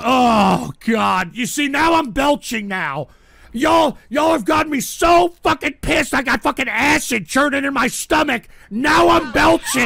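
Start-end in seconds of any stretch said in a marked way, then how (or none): 3.5-9.9 raised, heated rant at chat; angry rant. Real, not acted. Streamer venting at chat, raised angry rant.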